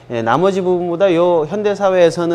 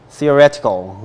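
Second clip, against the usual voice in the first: theoretical, lower, with the beat on -ret-; stress on third syllable; 4 semitones lower, much slower than usual. Shown as a demonstration. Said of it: "강세 여기". (theoretical을 낮게, ret에 강세)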